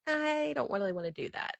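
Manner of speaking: soft, hesitant imagined refusal; gentle letdown. Retold or imitated. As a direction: imitate someone politely turning her down, softly. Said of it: "will be nice to me".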